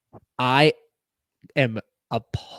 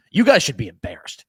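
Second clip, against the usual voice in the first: louder retold fan rant, not a real scream; mock fan yell; 7 dB louder than usual. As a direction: imitate an angry fan in a voice note. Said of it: "the Dallas fans screaming".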